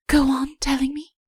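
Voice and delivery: breathless whisper; a breathless, whispered plea. A narrator's reading. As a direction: hush it out, all eager breath. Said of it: "she said breathlessly".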